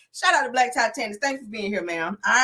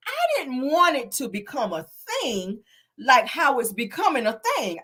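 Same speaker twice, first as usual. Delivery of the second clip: mimicked careful explanation; 3 semitones higher than usual. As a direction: draw it out, imitating her measured reply. Mimicking Mel, then repeated plainly.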